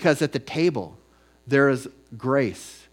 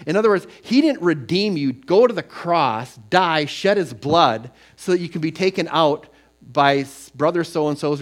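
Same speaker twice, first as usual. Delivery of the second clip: louder, higher, slowing on the cross; fervent rising sermon; impassioned preaching; 4 semitones higher, 6 dB louder than usual. Real, not acted. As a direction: build the fire of the sermon. Preaching at full force.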